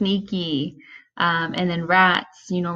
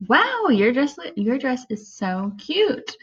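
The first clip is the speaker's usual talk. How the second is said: gushing compliment; 5 semitones higher, slower than usual. Shown as a demonstration. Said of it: "if someone says".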